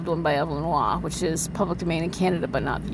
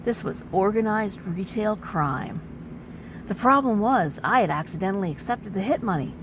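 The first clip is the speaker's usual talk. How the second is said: overwrought noir narration; milk every line like pulp noir; hammy stage actor. A narrator's reading. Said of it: "as a dramatic reading".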